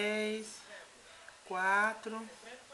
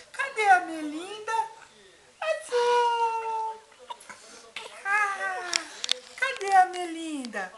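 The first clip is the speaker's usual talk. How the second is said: louder singsong peekaboo calls; 2 semitones higher, 3 dB louder than usual. Real, not acted. Peekaboo game with baby.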